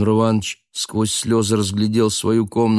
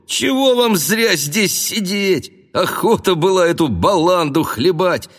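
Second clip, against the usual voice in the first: fat jolly cook; 10 semitones higher than usual. A narrator's reading. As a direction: coax the man like a rowdy cook. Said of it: "обратился ... толстый с малиновой шеей повар". (толстый весёлый повар)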